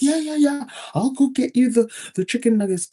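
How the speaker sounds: eager white guy. Retold or imitated. White male offering to fetch the chicken nuggets, high and eager. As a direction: play an overeager guy rushing to help.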